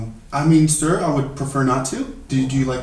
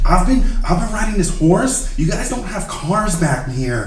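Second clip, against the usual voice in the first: Owen Wilson voice; 2 semitones higher than usual. Acted. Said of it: "such a bad Owen Wilson".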